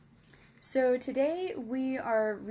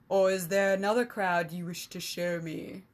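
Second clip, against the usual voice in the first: louder, sneering question; mocking emissary; 3 semitones lower, 4 dB louder than usual. Emissary mocking the king about his unruly subjects, sneering. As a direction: taunt the king with mock surprise.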